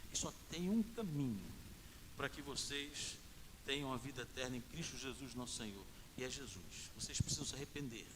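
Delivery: quiet, low retold plea; earnest appeal. Retold gospel appeal to the gang.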